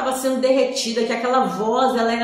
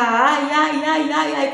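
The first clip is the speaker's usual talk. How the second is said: retold scream; 4 semitones higher, 3 dB louder, slower than usual. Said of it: "eu só sabia gritar".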